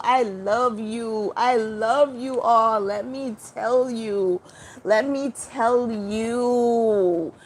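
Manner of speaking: slow, drawn-out words of love; slow loving blessing. Real, not acted. Blessing the Hawaiian viewers with slow, tender words. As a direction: bless them slowly and tenderly.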